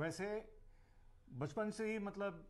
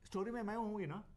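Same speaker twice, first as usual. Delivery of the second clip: higher, lightly voiced little girl asking; retold young daughter; 5 semitones higher, faster than usual. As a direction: imitate your small daughter angling for a part. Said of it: "फिर आती".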